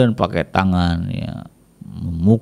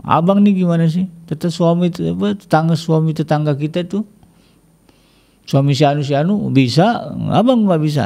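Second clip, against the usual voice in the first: complaining wife; 7 semitones higher than usual. Retold or imitated. Wife comparing husband to neighbor.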